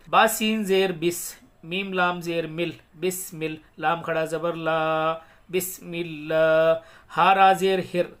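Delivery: slow, measured syllable-by-syllable chant; elongated Arabic recitation for learners; Quran spelling recitation. Shown as a demonstration. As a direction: spell out each syllable, then recite it joined, long vowels held. Hijja spelling and recitation demo.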